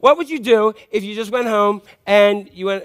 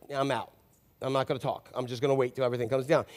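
mock withdrawal; 6 semitones lower, 10 dB quieter, faster than usual. God voiced as giving up talking.

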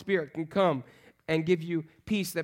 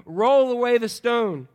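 louder, slow, drawn-out order; stretched-out, raised-voice instruction; firm command; 4 semitones higher, 5 dB louder, slower than usual. Acted. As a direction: give the disciples a deliberate command. Jesus commanding the disciples, acted.

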